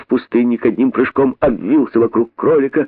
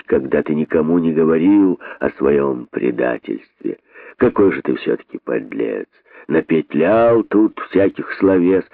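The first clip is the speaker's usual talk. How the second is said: put-on a lower, contemptuous old snake; lower-voiced boa condemning the rabbit; lower stern boa; 4 semitones lower than usual. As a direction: accuse him from low down, like a boa. Desert boa accuses the rabbit.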